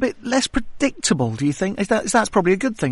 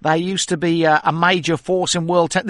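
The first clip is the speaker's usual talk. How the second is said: put-on a light, half-hearted Australian accent, slow at the start; joking put-on Australian accent, barely there; mock Australian accent; slower than usual. Host teases tennis guest with his Australian accent, lightly done. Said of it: "this is my Australian accent".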